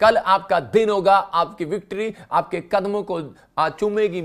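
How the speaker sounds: loud, forceful sermon declaration; rallying preaching. Real, not acted. Preacher rallies the congregation.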